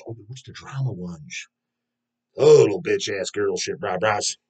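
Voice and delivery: slow, dopey mock voice of a drama viewer; mocking clueless viewers. Vlogger mocking drama-hungry viewers in a slow dopey voice. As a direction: sneer it out like a brainless fan.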